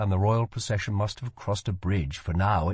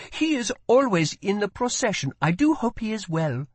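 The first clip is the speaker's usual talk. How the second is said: put-on higher girl voice, lightly concerned; a hint of a worried girl; 12 semitones higher than usual. A narrator's reading. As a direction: gently worry about him. First girl frowning.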